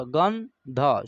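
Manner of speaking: गंध drawn out very slowly; slow syllable demo. Shown as a demonstration. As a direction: stretch गंध for pupils. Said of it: "आधा न का उच्चारण होगा".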